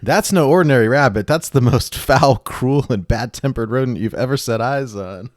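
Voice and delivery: put-on a rough, laughing stab at a Scottish accent, slowing on foul; jokey Scottish accent with a laugh in it; self-mocking Scottish accent. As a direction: deliver the Monty Python line in a half-hearted Scottish brogue, breaking into laughter. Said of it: "read it in your best Scottish accent".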